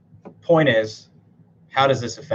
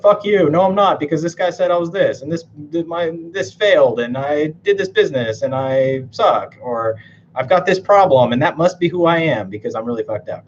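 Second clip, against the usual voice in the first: mock upset rant; 4 semitones higher than usual. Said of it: "But they're like".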